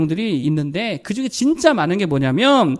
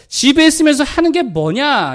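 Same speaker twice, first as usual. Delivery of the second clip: higher, slow, scolding "있으면서" with a falling end; scornful question; 6 semitones higher, 5 dB louder than usual. Retold or imitated. A husband scolding his wife over the messy house. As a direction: nag like a fed-up husband. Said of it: "이게 보통 정리가 잘 안 되실 때 하는 말".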